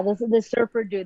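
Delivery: lightly mocking surfer dude accent; a touch of California surfer accent. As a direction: put on a laid-back California surfer accent. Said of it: "one of my favorite accents too".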